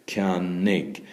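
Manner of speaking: ceannig as two distinct beats; teacher showing the two syllables of ceannig. Shown as a demonstration. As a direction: sound out ceannig, "kyan-nig". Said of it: "two syllables means two beats".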